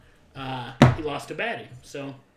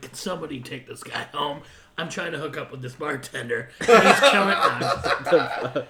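exasperated plea; 2 semitones lower, 5 dB louder than usual. Retold or imitated. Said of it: "and I'm like".

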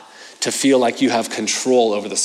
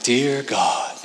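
mellow prayer. Retold or imitated. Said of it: "really mellow prayers".

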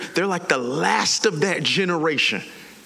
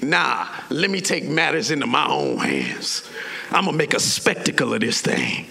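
low, self-important refusal; lowered voice of stubborn resolve; defiant Moses; 6 semitones lower than usual. Acted. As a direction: brush it off, pitched down. Acting defiant Moses taking over.

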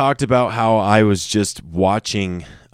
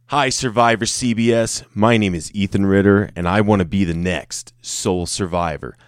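put-on audition voice. Shown as a demonstration. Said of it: "I don't know why I'm doing that voice".

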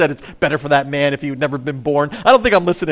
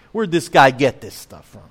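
dismissive; 2 semitones lower than usual. Retold or imitated. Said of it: "Very impersonal, isn't it?".

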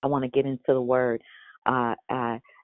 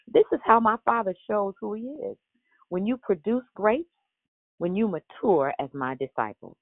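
expressive scripture reading; 2 semitones higher than usual. Acted. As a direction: read the verses with feeling, savoring each promise. Reads scripture with inflection.

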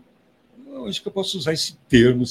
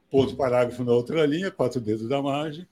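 dictating. Retold or imitated. Dictating the council minutes.

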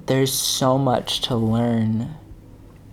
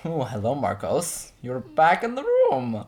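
mocking own voice; 4 semitones higher than usual. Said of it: "I feel like I sounded".

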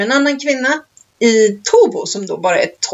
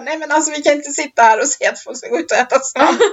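higher, giggling mock protest; laughing imitation; 4 semitones higher than usual. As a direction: imitate her objection while laughing. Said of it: "Och Carina Berg bara".

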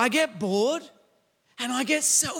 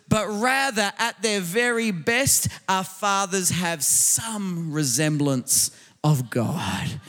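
full-voiced sermon delivery, building emphasis; forceful preaching. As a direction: preach it out to the congregation. Preaching to congregation.

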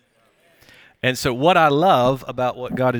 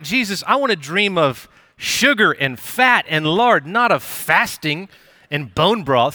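drawn-out, higher-pitched comic complaint; hammed-up protest in prayer; mock pleading; 4 semitones higher, 3 dB louder, slower than usual. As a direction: plead slowly in playful exasperation, stretching the food words. Retold complaint to Jesus about dream.

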